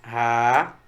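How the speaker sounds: "Ra-in-nha" in three spaced-out beats; split into syllables. Shown as a demonstration. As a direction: hold each syllable of "Ra-in-nha", pausing between. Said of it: "como é que eu separo rainha?".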